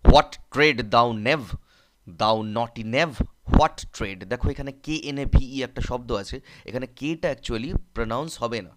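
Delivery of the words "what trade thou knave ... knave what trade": loud, slow angry scolding of a knave. Acted. Tribune scolding the cheeky cobbler, angry loud bark. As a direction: bark the question at him like an irritated tribune. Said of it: "অত্যন্ত বিরক্ত হয়ে ওকে ধমকে বলছে".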